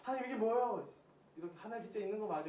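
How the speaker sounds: a touch of exasperated complaint; retold angry protest. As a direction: imitate yourself challenging God. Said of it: "화내는 제가 막 보이는".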